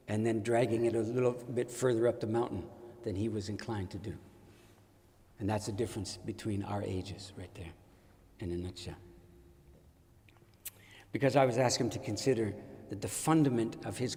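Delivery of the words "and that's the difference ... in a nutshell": whispered aside. Real, not acted. Aside about age gap.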